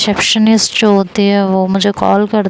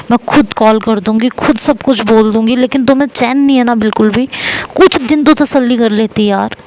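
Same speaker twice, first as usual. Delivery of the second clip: raised, heated scolding; a mock quarrel, pitched up and pushing; angry yelling; 3 semitones higher than usual. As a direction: tell him off, voice climbing higher. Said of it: "तो मैं इस तरह चिल्लाए जा रही".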